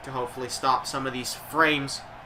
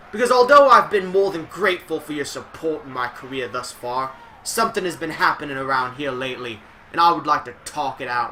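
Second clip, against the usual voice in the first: a bad, light Scottish accent, louder; terrible Scottish accent; 4 dB louder than usual. Streamer reading Drew McIntyre's promo in a bad Scottish accent. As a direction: fake a Scottish wrestler poorly. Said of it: "terrible Scottish accent".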